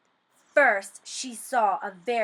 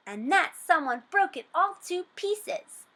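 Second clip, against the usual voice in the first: put-on higher, squeaky baby bear; 8 semitones higher, 3 dB louder than usual. A narrator's reading. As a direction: squeak it out like a tiny cub. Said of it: "squeaked Baby Bear".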